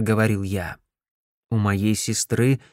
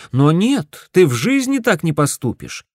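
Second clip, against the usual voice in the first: heated scolding; 7 semitones higher, 5 dB louder than usual. Acted. Brother scolding sister about conman.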